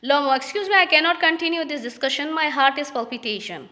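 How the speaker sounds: reading each English line slowly and carefully; slow play reading. Acted. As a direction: read it out like a play script, word by word. (धीमी, साफ़ नाटक पढ़ाई)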